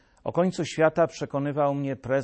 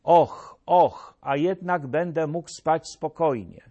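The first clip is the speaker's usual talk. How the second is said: mock relief; 3 semitones higher, 4 dB louder than usual. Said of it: "Pomyślałem wówczas".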